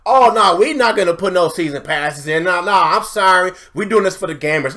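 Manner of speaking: parroting the publisher's fake promise; sarcastic impression of an EA rep; mock EA spokesman. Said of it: "When they said".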